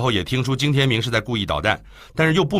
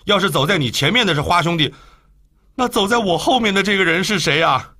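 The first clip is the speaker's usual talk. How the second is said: suspicious and uneasy; 6 semitones higher than usual. Acted. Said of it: "狐疑地说道".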